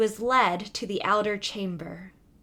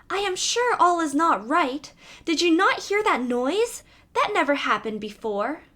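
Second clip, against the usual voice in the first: put-on higher, fretful young princess voice, lightly done; uneasy youngest princess; 5 semitones higher than usual. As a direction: let a timid princess worry aloud. Youngest princess frightened again.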